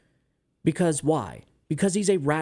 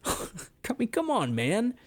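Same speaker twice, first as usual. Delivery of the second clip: breathy laugh, pitch jumps higher; laughing disbelief; 8 semitones higher, 4 dB quieter, slower than usual. Real, not acted. Host laughing at the obvious hypocrisy, exasperated. Laughing at blatant double standard.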